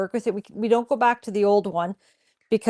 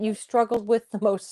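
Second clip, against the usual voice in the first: playful dog voice speaking for the pet; cartoon dog. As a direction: voice the dog's line lightly. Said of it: "That was my dog voice".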